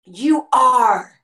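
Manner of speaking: slow, fervent worship declaration; stretched, impassioned address to God; reverent worship. Acted. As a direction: draw each phrase out in adoration. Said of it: "when you worship him, you say".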